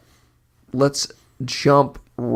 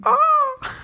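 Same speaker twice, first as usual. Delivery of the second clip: screechy seagull voice. Acted. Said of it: "That one's actually pretty good".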